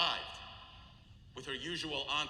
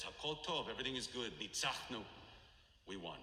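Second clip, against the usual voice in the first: hushed solemn quote; 5 semitones lower, 7 dB quieter than usual. Retold or imitated. Solemn retelling of her words.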